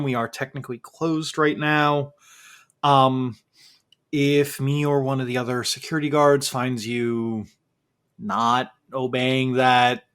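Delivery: a hint of a wary guard laying down the rules; stern museum guard.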